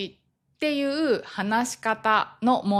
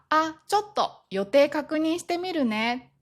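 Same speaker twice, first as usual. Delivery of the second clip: evasive; 6 semitones higher than usual. Acted. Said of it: "ノーと思っていいサインです".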